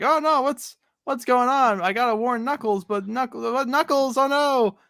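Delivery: a worried cartoon cricket squeaking out a warning; Jiminy Cricket voice. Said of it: "I read Archimedes with Jiminy Cricket's voice".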